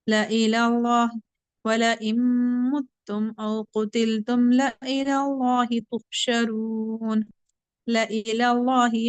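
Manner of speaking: slow, drawn-out tajweed recitation; Quran recitation. Shown as a demonstration. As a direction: chant the verse slowly with care. Teacher recites Quran verse. (धीमी तजवीद वाली तिलावत)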